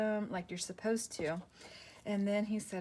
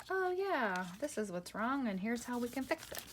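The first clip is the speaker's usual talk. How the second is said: hopeful doctor; 6 semitones higher than usual. Retold or imitated. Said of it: "be like".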